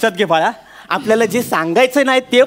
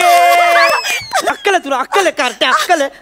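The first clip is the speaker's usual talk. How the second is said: angry scolding; 6 semitones higher than usual. Real, not acted. Father scolds daughter over scratched car.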